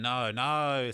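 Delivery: half-hearted imitation of a scream; mild mock scream. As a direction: imitate her screaming, without going all out. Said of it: "She's just screaming".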